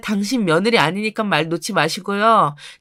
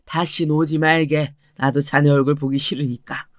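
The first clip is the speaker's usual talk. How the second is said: put-on lower, stern older father's voice; father warning son-in-law, lower and stern; 4 semitones lower than usual. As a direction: lower voice, firmly turning him away. Father sends son-in-law away.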